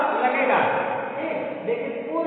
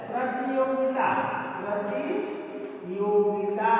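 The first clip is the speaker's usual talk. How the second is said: slow sing-song demo; 3 semitones lower, much slower than usual. Shown as a demonstration. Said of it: "और किसमें use होगा?".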